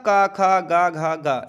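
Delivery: teacher drilling velar sounds; throat consonant drill. Shown as a demonstration. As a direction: bark out का खा गा घा from the back of the throat. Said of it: "कवर्ग का उच्चारण कंठ से होता है".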